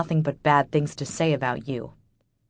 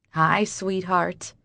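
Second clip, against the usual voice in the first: tender greeting; much slower than usual. Acted. Mom greeting daughter.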